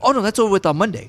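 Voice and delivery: fast breezy dismissal; casual, quick and offhand; matter-of-fact. Retold or imitated. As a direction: brush it off easily. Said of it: "like, matter of fact".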